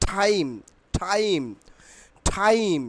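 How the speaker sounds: টাইম repeated, each T released with a puff; aspirated T. Shown as a demonstration. Teacher drilling students on the corrected word, aspirated T. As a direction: drill টাইম as ঠাইম, pausing between repeats. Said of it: "টাইমের উচ্চারণ হবে".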